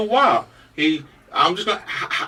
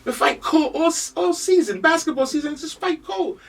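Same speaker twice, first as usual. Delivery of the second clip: high, thin voice about fighting colds; high squeaky aside; 10 semitones higher, 3 dB quieter than usual. Real, not acted. Host joking to listeners about fighting colds, high.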